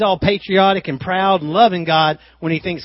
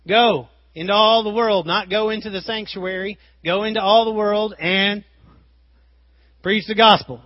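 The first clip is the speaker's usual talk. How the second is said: fervent preaching; 5 semitones higher than usual. Real, not acted. Preaching the great commission.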